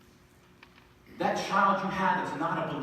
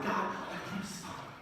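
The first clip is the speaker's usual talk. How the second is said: breathy whispered plea to God; quiet anguished whisper; 2 semitones higher, 6 dB quieter than usual. Retold or imitated. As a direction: hush it like a desperate prayer. Hannah's desperate prayer, quoted.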